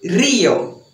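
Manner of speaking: Rio with a strong trilled Spanish R, like rrio; dramatic trilled R on Rio. Shown as a demonstration. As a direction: Rio with a bold trilled R, mouth wide open. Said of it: "É assim mesmo que fala".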